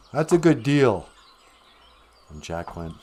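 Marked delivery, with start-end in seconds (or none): 0.1-1.1 brisk, assured selling line; confident dealmaker's clincher; persuasive goblin. Acted. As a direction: push the bargain on a hesitant buyer. Goblin urges the trade on Jack.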